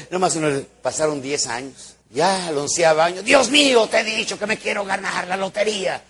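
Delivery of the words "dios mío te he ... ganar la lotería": exasperated plea. Retold or imitated. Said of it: "man complaining to God".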